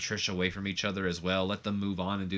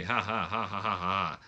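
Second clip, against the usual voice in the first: hammed-up ha-ha laughter; mock a roomful of people laughing; acted group laugh. Everybody on the bus laughs as the scene fades, mock laughter. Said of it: "laughs or probably".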